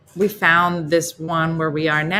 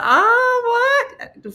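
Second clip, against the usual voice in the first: flirty oh what; 6 dB louder than usual. Retold or imitated. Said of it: "you're like".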